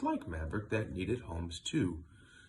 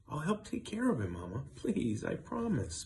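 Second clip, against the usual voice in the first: pleading; 5 semitones higher than usual. Acted. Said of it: "pleaded Scarlet".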